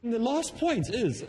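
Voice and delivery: high-pitched mock of rambling speaker. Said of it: "another idea comes in".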